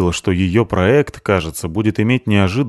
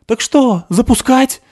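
high, loud call; shouting; 5 dB louder, slower than usual. Acted. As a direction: shout the question across the noise. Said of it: "закричал Кройчик".

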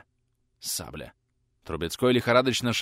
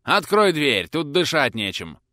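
louder call to the Poles; 5 semitones higher, 7 dB louder than usual. A narrator's reading. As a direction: shout it as a French officer. Prince shouts in French disguise.

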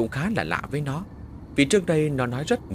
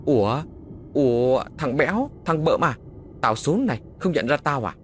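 surprised; 3 semitones higher than usual. Acted. Surprised recognition of friends.

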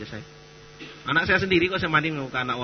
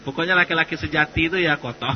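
louder, laughing through the words; joking laugh; 5 semitones higher, 8 dB louder than usual. Real, not acted. Preacher jokes that real men are dirty, laughing loudly. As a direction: say it while cracking up at your own joke. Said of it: "ini bercanda ya".

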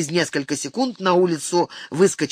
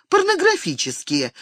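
one word cried out much higher; shouting out; 11 semitones higher than usual. A narrator's reading. Venus answers her brother, a high indignant cry. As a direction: fling the word out in outrage. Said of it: "выкрикнула она".

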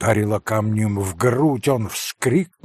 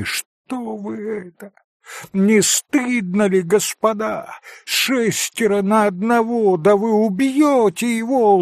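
a higher, pleading shout to stop them; Alyosha shouting; 7 semitones higher than usual. A narrator's reading. Alyosha shames the boys, a mild high pleading shout. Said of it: "закричал Алёша".

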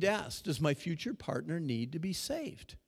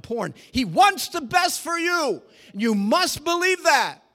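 high, loud pulpit shout; fiery sermon delivery; full-force preaching; 7 semitones higher, 12 dB louder than usual. Acted. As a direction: preach it out to the back row.

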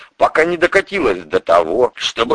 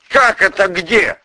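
high, slow, startled question; gasping in surprise; 9 semitones higher, 3 dB louder than usual. Acted. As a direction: caught off guard. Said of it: "ахнул прокурор".

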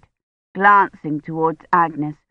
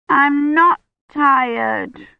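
put-on high, slow childish whine; whining; 8 semitones higher, 4 dB louder, much slower than usual. Agnes protests bedtime in an unconvincing whine. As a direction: whine it, barely convincing. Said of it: "in a whine that was scarcely convincing".

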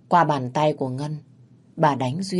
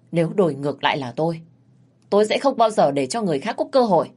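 scornful scolding. Acted. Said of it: "chửi từng người một".

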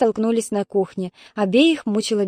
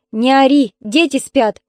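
louder scolding shout; 4 semitones higher, 6 dB louder, slower than usual. Acted. Mother shouts at her daughter to stop yelling. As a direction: shout back to hush her. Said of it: "закричала Ольга Петровна".

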